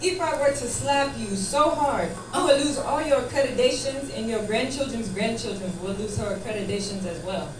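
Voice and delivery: a hint of Nigerian accent, measured and deliberate; Nigerian boyfriend threat. Nigerian boyfriend threatening his girlfriend after the call, lightly imitated menace. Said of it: "And he's like".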